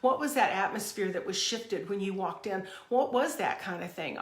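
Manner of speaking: imitating someone struck by a presence; retold amazement. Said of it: "I'm like".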